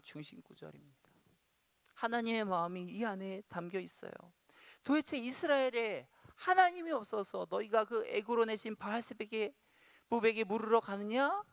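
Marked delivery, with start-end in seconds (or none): 4.8-11.4 raised pitch, incredulous rebuke; exasperated questioning in God's words. Acted. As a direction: demand it in frustration, voice pitched up. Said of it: "너무 답답해하시면서".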